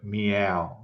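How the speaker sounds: "meow" with a distinct M; spelt-out "meow", M sounded first; M clearly pronounced. Shown as a demonstration. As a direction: say "meow" slowly as mee-ow. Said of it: "you can hear the M pronounced".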